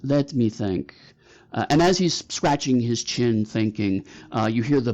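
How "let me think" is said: a hint of fake Korat accent, pondering; Mister Meow. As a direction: think aloud in a lightly faked Korat accent. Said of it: "fake Korat accent you've ever heard".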